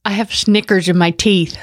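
talking through a mouthful of candy; words mushed by sticky chocolate; mouth full. Real, not acted. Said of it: "do you have a mouthful of marbles?".

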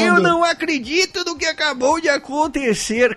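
mock stunned disbelief. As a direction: say it as if you can't believe your luck. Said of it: "como quem diz assim".

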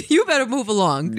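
giggling through the line; laughing while speaking. Pretend. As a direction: laugh the words out. Laughing repeat of the phrase.

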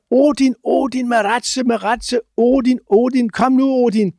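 high calling chant of a name; retold crowd shout. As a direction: call the old man up to drum. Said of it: "så råber de alle sammen".

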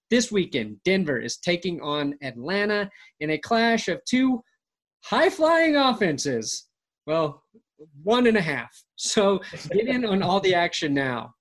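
upbeat sponsor read. Acted. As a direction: pitch it like a radio spot.

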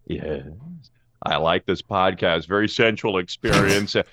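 halting, musing, low mumble with odd stops; a lightly voiced Goldblum; Jeff Goldblum impression. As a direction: ramble like a charming eccentric.

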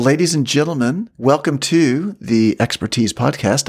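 ordinary delivery

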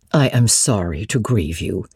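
a hint of a flustered elderly widow; lightly voiced old lady, puzzled and hesitant; bewildered old woman questioning Jane gently; old housekeeper. Mrs Fairfax voiced low.

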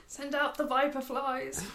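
slow mock supervillain command; Doctor Evil. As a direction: play a hammed-up evil mastermind, drawn out. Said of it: "something Doctor Evil would invent".

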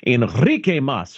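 Enrique Mas with a Spanish flourish; Spanish accented name. Acted. Correcting who is who in a sitcom retelling, Spanish accented name. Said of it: "That's not Enrique Mas".

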